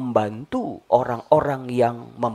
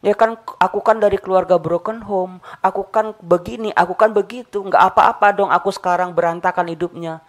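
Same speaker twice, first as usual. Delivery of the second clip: whiny excuse-maker; 5 semitones higher, 3 dB louder, faster than usual. Retold or imitated. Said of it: "banyak orang berpikir seperti itu".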